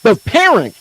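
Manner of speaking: slow mocking mother's voice. Mocking Mama D in the argument, slow sneering mother's voice. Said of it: "You're still saying".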